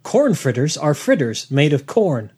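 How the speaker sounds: deadpan, slow reading of a dull fact. Shown as a demonstration. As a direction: read it out slowly and flatly. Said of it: "worst Wikipedia page ever".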